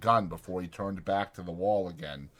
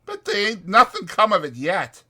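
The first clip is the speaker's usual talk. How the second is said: higher, louder rough ranch hand; 12 semitones higher, 6 dB louder than usual. Acted. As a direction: speak it like a bunkhouse ranch hand. Narrator voicing ranch hand.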